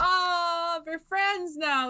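high, drawn-out coo; mock-touched gushing. Fan gushing over rivals now friends, playful high coo. Voicing delight at characters' new friendship.

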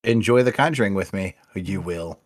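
Yoda-style inverted phrasing; lightly voiced Yoda word order; backwards speech. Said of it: "Why are you talking like you?".

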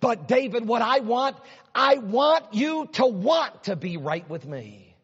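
voicing God. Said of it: "here's God saying".

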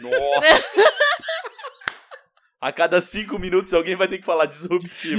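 loud laughing exclamation. Real, not acted. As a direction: laugh while saying it. Laughing about the word.

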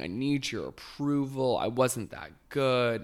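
a touch of drunken self-pity, imitated; Tinsley Mortimer. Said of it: "keeps going and going".

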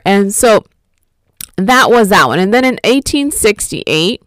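ordinary talk, nothing marked

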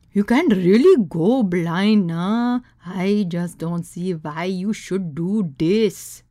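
put-on slow, disapproving Indian accent; thick Indian accent. Grimacing guest warning the others, thick Indian accent. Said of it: "in her thick Indian accent".

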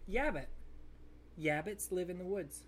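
deadpan "Yabbits", the r turned to y; "Yabbit" for rabbit. Acted. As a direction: say "Yabbit" clearly with y for r. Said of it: "Instead of rabbits".

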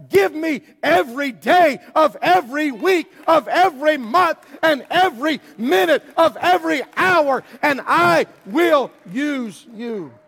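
a hint of a booming God, slowing to a drawn-out end. Preacher voicing God's claim on the church, lightly voiced. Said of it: "And God says".

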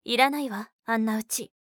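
loud, flat-out refusal; firm. Acted. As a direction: say it with finality. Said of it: "あきこはきっぱりと言った". (きっぱりと言い切る)

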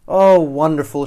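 loud, gushing exclamation; pleased fish exclaiming; delighted cry. A narrator's reading. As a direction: burst out with it happily. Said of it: "she cries".

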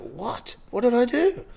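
a lightly voiced jump up in pitch; a hint of startled alarm; retold shock. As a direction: act out mild disbelief at the news.

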